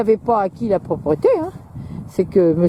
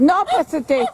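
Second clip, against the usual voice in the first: sharp command; 8 semitones higher than usual. Real, not acted. Dog about to jump.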